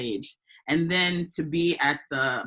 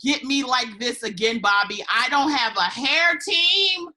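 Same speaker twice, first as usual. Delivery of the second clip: mock outrage; 10 semitones higher, 4 dB louder than usual. Joking complaint about her look.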